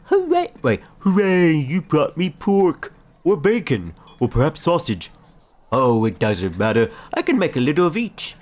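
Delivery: high, loud, delighted cheering voice; overjoyed character. Acted. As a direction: squeal with delight over the meat. Voicing the delighted game character.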